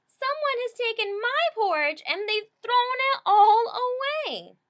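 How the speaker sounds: high, loud tiny cub wailing; baby bear upset over porridge; wee little voice crying. A narrator's reading. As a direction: whine it out like a heartbroken little cub. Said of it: "cried in his wee little voice".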